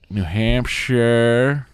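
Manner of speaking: very drawn-out attempt at a New Hampshire accent; slow, elongated New Hampshire accent; New Hampshire accent demo. Shown as a demonstration. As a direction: stretch out "New Hampshire" slowly, trying the local accent. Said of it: "a little bit of a Boston".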